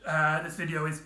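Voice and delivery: talking through hiccups; speech broken by hiccups; hiccuping. Real, not acted. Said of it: "Sorry, I keep hiccuping or something".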